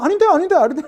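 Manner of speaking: mock ministers objecting. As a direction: needle the king like stubborn ministers. Ministers contradicting the king. (왕에게 반대하는 신하들을 흉내 내듯 놀리며)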